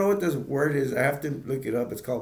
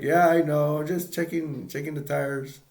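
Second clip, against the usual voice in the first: playing dumb; 3 semitones higher, 3 dB louder than usual. Dad caught out by onlookers, playing dumb. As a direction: cover up with a mock-casual act. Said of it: "Clark plays dumb".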